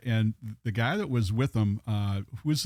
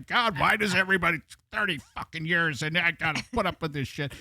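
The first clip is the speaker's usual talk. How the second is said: higher-pitched mock exasperated rant; retold griping, pitched up for laughs; animated exasperation; 6 semitones higher, faster than usual. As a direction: imitate a fed-up, animated complaint. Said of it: "he's, like, animated".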